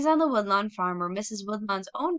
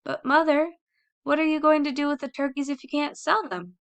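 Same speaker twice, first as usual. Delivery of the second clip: high, loud insistent question; persistent child; 7 semitones higher, 4 dB louder than usual. Acted. Tom pressing his mother about the unsold turkeys, high and loud. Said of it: "persisted Tom".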